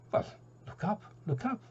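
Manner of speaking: high, breathy whispered call from far away; the sun whispering to the birds; airy whisper. Acted. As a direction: whisper it down from the sky.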